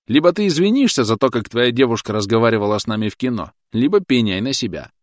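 loud, firm ultimatum. A narrator's reading. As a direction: say it firmly, raising the voice. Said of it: "твёрдо сказал Том".

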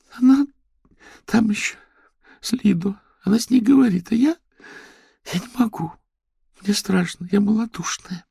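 put-on very high, loud tearful girl. A narrator's reading. Lera tells the major she cannot face it. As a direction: sob it out, frightened.

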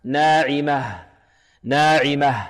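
ناعمة slowly, ending in an audible breathy h; clear final ha. Shown as a demonstration. Teacher modelling the pause, ناعمة with a clear final h. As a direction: stop on ناعمة and let the final h sound out. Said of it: "فلا بد من بيانه حالة الوقف".

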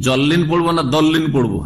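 "জল্লিন" with z, "দল্লিন" with heavy d; z-sound then d-sound; z versus d contrast. Shown as a demonstration. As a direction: set "জল্লিন" against "দল্লিন" by the first consonant. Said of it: "জদ নিয়ে খুব ঝগড়া".

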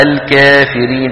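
الكافرين with the alif slightly tilted toward ي; taqlil demo. Shown as a demonstration. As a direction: show the taqlil on الكا. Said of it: "هذا اسمه تقليل".

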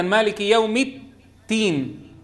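مالك يوم الدين slowly, with an aspirated "t"-like د in الدين; whispered dal. Shown as a demonstration. Teacher shows a common mistake, breathy د in الدين. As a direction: puff air through the د of الدين. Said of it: "ينطقها مهموسة".

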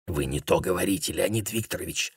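softly hissed warning; whispered. A narrator's reading. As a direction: whisper a correction to a colleague. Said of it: "шепнул второй делегат".

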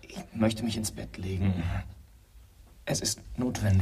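leises, stimmloses Flüstern; flüstere es entschlossen; geflüstert. Acted. Leise Bitte. (leises Flüstern)

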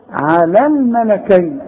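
الملكين with the ي drawn out; lengthened ya. Shown as a demonstration. Teacher recites على الملكين lengthening the ي. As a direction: stretch the ي in الملكين. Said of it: "بلغ الياء".

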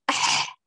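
أح scraped too hard; over-rub the ح in أح; overdone ha friction. Shown as a demonstration. Teacher imitating excessive friction on the ha. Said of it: "هذا الاحتكاك الزائد".

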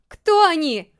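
loud, high, panicked shout; shouting back. Acted. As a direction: yell the question at him. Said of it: "закричал в ответ Тока".

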